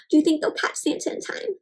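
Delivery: gasp, then a soft whispered question; hushed whisper. Real, not acted.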